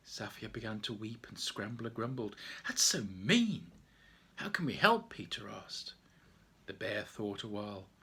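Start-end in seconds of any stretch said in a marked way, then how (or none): 2.7-5.1 put-on indignant child. Children react.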